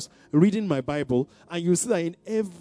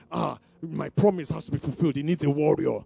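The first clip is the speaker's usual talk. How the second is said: mock worried believer. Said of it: "You hear the kind of voice".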